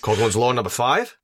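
put-on Aussie announcement; Australian accent. Co-host announces a drinking-game rule, mock Australian accent. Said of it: "in the Australian accent?".

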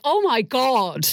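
mock dismay. Dismayed recollection of changing shirt.

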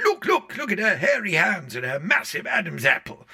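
high, loud heckle from the audience; outraged yell, imitating a heckler; shouting. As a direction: shout it out, pitched right up. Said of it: "he was shouting at Olivia".

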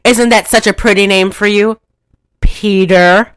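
lightly acted, cooing aunt; Aunt Martha. Aunt naming the child, lightly hammed-up voice. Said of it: "And then she says".

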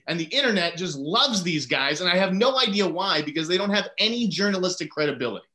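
worked-up, insistent debunking; ranting. Real, not acted. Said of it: "started on a rant".

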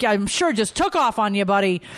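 mother mocking her son's excuse sarcastically; sarcastic disbelief. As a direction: tease him for the lame excuse. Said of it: "I'm kinda like".

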